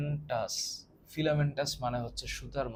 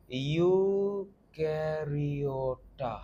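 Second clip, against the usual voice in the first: ইউক্যারিওটা stretched very slowly syllable by syllable; drawn-out word; much slower than usual. Shown as a demonstration. Teacher drawing out ইউক্যারিওটা for students. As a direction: drag out ইউক্যারিওটা for the class. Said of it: "এই শব্দটা আসছে কোত্থেকে?".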